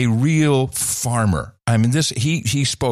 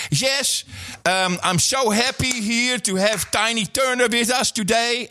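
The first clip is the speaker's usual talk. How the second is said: high, singsong mock of a clumsy host; farmer guy's speech; 11 semitones higher than usual. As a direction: lampoon the pompous retailer mispronouncing the name. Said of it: "And he starts off by".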